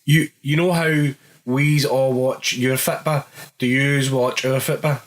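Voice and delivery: mock fan voice. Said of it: "I was saying".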